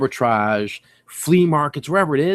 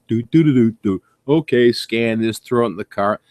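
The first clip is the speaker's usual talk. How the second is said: bored. Retold or imitated. Bored scanning routine in Walmart.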